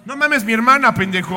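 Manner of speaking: put-on norteño Monterrey accent, loud. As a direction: bark it like a regio. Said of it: "si hubiera sido en Monterrey, es como".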